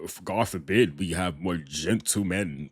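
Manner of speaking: imitating a smug, sarcastic dig; mock sarcastic. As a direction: echo his line with dripping mock sarcasm. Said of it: "said that sarcastically".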